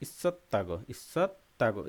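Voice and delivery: ইসত্তাগো said with a doubled, held তত; Korean pronunciation. Shown as a demonstration. Teacher models Korean word for students, careful pronunciation. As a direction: model ইসত্তাগো with a clear geminate tt. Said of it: "এই যে এখানে আছে ইসত".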